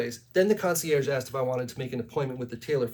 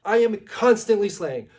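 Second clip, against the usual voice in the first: higher, louder outraged shouting at the operator; indignant yelling; 5 semitones higher, 4 dB louder than usual. Retold or imitated. Influencer yells at the hotel operator about slaying, loud and high. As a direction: yell your self-praise at her. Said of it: "I'm sorry for yelling".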